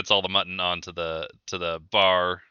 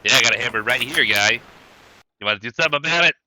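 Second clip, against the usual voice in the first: menacing goblin; much faster than usual. Acted. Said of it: "menacingly, as menacing as he can get".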